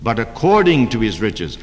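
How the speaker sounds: according weighted in contrast to out of; stress on according. Shown as a demonstration. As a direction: hit "according" against "out of". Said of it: "Paul didn't say he'll supply your needs out of his riches".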